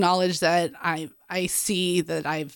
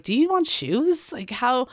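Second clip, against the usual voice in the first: gentle offer. Retold or imitated.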